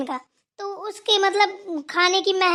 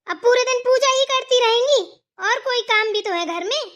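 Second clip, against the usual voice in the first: raised, higher-pitched scolding; loud complaint; 3 semitones higher, 4 dB louder than usual. Acted. Younger sister-in-law confronts elder about endless puja, loud complaint. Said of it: "इतना तेज तेज क्यों बोल रही हो".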